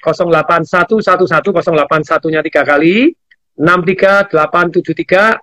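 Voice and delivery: slow, careful number dictation; slowly. Shown as a demonstration. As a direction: read each digit out slowly. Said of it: "Saya ulangi pelan-pelan ya".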